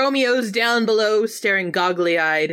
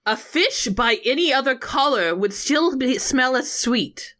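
higher-pitched mock theatrical recital; Juliet's soliloquy; 4 semitones higher than usual. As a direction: recite it like a stagey love monologue. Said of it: "A, or soliloquy, if you will".

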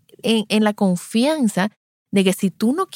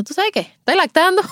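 thrilled news; 12 semitones higher than usual. Retold or imitated. Mother tells the consultant she is nursing now, thrilled and high. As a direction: share the good news bursting with joy.

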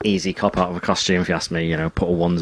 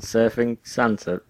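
puzzled echo; slower than usual. Retold or imitated. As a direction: repeat it back slowly, confused. Comedian's puzzled reply.

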